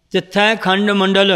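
slow, joined "ਤਿੱਥੈ ਖੰਡ ਮੰਡਲ" with the rest on "ਮੰਡਲ"; pause after ਮੰਡਲ. Shown as a demonstration. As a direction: carry "ਤਿੱਥੈ ਖੰਡ" through and come to rest falling on "ਮੰਡਲ". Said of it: "ਮੰਡਲ ਤੇ ਵਿਸਰਾਮ ਹੈ". ("ਤਿੱਥੈ ਖੰਡ ਮੰਡਲ" ਇਕੱਠਾ ਪੜ੍ਹ ਕੇ "ਮੰਡਲ" ਤੇ ਵਿਸਰਾਮ)

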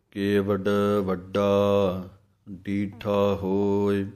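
ਕੇਵਡ ਵੱਡਾ, a pause, then ਡੀਠਾ ਹੋਇ slowly; pause after ਵੱਡਾ. Shown as a demonstration. Teacher showing the pause after ਵੱਡਾ. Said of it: "ਵੱਡਾ ਦੇ ਉੱਤੇ ਵਿਸਰਾਮ ਹੈ".

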